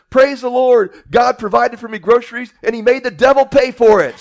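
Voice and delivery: high, loud gleeful praise; delighted old lady shouting praise; triumphant praise. Acted. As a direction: crow it out as the winning punchline. Old lady's triumphant punchline.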